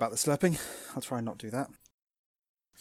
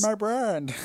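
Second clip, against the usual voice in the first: advert voice; 8 semitones higher, 4 dB quieter than usual. Retold or imitated. Quoting the contact lens advert.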